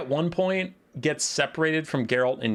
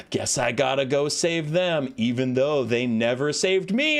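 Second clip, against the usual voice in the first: put-on sulky teenager, reluctant; grudging reaction. Streamer mimics Ciri learning they're alive, grudging and sulky. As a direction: imitate a martyr grudgingly agreeing to help. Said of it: "her reaction is".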